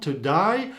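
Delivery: "today" ending like "die"; today with i sound. Shown as a demonstration. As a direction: say "today" with an Australian "ai". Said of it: "with some kind of a sound".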